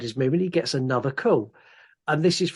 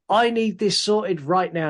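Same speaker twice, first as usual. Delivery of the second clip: higher, slow insistence; retold impatient demand; 5 semitones higher than usual. Retelling the rich man's call to the handyman, mildly demanding. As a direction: press the demand word by word.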